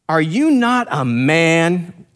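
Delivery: slow, drawn-out mock call; retold challenge, slowly called out; bold crying out. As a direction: stretch out the taunt as if calling across a valley. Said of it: "boldly crying out to them".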